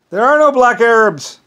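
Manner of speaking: loud, high, drawn-out exclamation; exclaimed retort. Retold or imitated. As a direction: call it out slowly, stretching the words. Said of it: "It's like".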